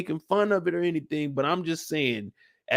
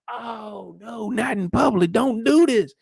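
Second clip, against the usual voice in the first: hyped; 4 semitones higher than usual. Retold or imitated. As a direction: hype it up like a fight is starting. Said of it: "I'm like".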